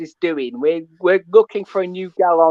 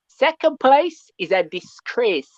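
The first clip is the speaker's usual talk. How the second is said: put-on Jamaican accent; 3 semitones higher, slower than usual. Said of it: "You're getting that Jamaican accent out of me".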